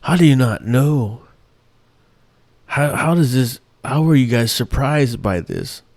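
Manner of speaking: exasperated question. Retold or imitated. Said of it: "I'm like".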